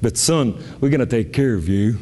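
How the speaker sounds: low, kindly imitation of a surgeon; smiling reassurance. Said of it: "he smiled with his little mustache and he said".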